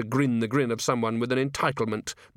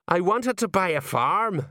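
moaning; 8 semitones higher, slower than usual. Acted. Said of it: "moaned Colon".

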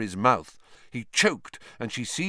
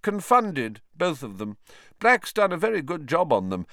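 cold sneering man; 7 semitones higher than usual. Acted. Snape dismissing the children.

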